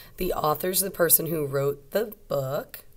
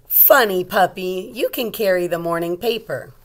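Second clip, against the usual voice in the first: lightly voiced, louder fond mother; mom's voice; 7 dB louder than usual. Mom speaking fondly to the puppy carrying her paper, lightly voiced. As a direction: tease the puppy gently.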